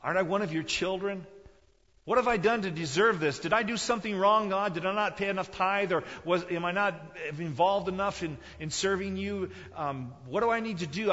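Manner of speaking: high, loud, pleading cry to God; a betrayed son crying out to God, anguished; anguished prayer. Acted. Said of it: "Do you say".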